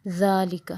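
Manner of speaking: ذالک with a soft ذ from the tongue tip; touch the ذ of ذالک lightly; soft dh sound. Shown as a demonstration. Teacher modelling a soft ذ in ذالک. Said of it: "زبان کی نوک سے softly ادا کرنا ہے".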